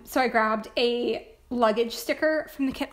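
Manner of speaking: worn-out hoarse voice after long recording. Real, not acted. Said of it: "I sound like an old man".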